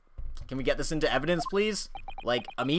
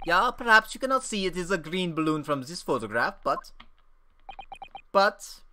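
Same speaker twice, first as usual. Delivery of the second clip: put-on whiny boy; 6 semitones higher, 4 dB louder than usual. Boy blames the camera.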